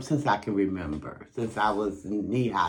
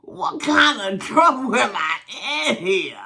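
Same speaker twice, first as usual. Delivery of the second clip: put-on worried child; 8 semitones higher, 4 dB louder than usual. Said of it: "I'm like".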